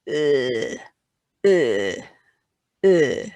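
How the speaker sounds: drawn-out, falling "ugh"; disgusted ugh. Shown as a demonstration. Teacher mimics lady finding something nasty on her shoe, disgusted. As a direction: recoil with a short disgusted groan. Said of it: "just discovered something nasty on your shoe".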